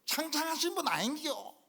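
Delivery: high, lilting Gyeongsang speech; Gyeongsang dialect. Retold or imitated. Elder reassuring the young pastor, Gyeongsang dialect. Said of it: "경상도 말로".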